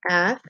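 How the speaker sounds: "Athlete" in two parts with a long gap; syllable by syllable. Shown as a demonstration. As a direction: dictate "Athlete" slowly in separate syllables. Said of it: "let's write it again".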